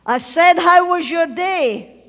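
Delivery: loud, high, slow and insistent; demanding father. Retold or imitated. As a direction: imitate a father demanding an answer, each word drawn out. Father repeats his question, demanding answer.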